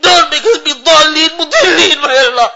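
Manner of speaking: high, crying prayer; real sobbing supplication, voice pushed high; tearful pleading. Real, not acted. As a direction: weep as you beg God for forgiveness. Weeping supplication for the suffering.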